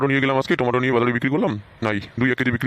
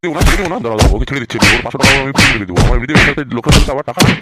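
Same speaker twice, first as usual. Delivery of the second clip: loud furious ranting; father yelling about lost business money; angry loud refusal; 6 dB louder than usual. Acted. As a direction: shout him down. Father beating son, mother intervenes.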